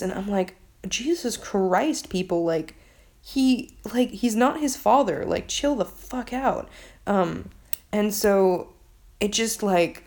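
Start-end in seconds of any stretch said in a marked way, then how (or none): 0.9-6.7 high-pitched, drawn-out exasperation; exasperated. Retold or imitated. Reader tells book characters to calm down, exasperated. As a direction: plead in disbelief with overreacting people.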